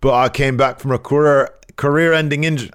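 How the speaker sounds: imitating Gradwell in a bad British accent. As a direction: sneer it like a Brit heel. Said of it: "my bad British accent, my Gradwell voice".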